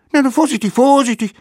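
high mock-careful call. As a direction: coax it down, careful now. Kids directing mammoth onto grill.

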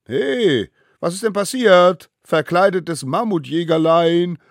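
high, gleeful mock concern; sniggering kid taunt, drawn out at the end; giggly teasing. A narrator's reading. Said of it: "gickerten sie".

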